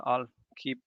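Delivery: usual speaking voice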